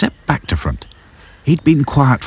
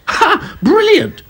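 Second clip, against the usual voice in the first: laughing; much slower than usual. A narrator's reading. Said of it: "laughed Dotty".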